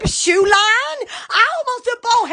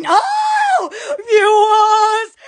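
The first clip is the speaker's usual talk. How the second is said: excited call; 4 dB louder, much slower than usual. Real, not acted. Excited greeting to viewers.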